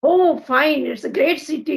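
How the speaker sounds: usual speaking voice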